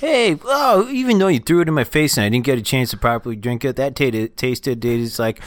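high, loud excited gush. Pretend. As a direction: gush over the taste. Pretend drinking, excited.

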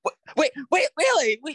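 high, loud burst of disbelief; real astonishment. Real, not acted. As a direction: blurt it out, amazed. Astonished they both thought the same.

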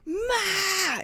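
put-on high, stretched-out child's wail; imitated kid calling. Mother mimicking her son until she looks at him, high drawn-out cry. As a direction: mimic a pestering kid crying out for mom. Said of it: "The second that my eyesight turns away from him".

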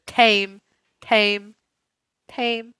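"Tame" for team, vowel widened; British-leaning vowel. Shown as a demonstration. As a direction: try out "Tame" as an accented team. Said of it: "but it goes British".

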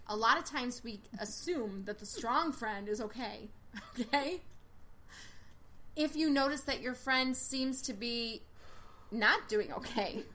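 fighting back giggles; trying to stay serious through laughter; stifled giggles. Real, not acted. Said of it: "stop laughing, Jamie".

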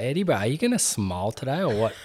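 light imitation of a Norwegian accent; lightly put-on Norwegian accent. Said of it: "this is me putting in my Norwegian voice".

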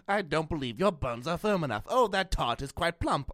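high, loud British lady impression. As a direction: gush over pastry as a hammed-up British lady. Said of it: "a British lady saying".

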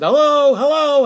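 loud, high call of hello into an empty shop; shouting hello to see if anyone is there; yelled hello. Retold or imitated. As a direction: call out hello to find someone. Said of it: "I yelled".

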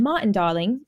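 playful mock British accent. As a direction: put on a light British lilt, as if addressing a darling. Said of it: "with a British accent".

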